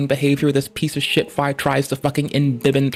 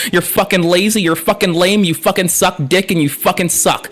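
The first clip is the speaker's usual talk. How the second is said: angry rant. Real, not acted. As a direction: tear into them nonstop. Ranting insults at coercers.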